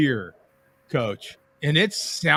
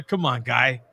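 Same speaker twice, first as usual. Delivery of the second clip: put-on Boston accent; 5 semitones lower, 4 dB quieter than usual. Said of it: "I got the freaking Boston accent down".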